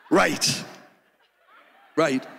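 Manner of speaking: sheepish agreement. Retold or imitated. Caught out, agreeing loudly.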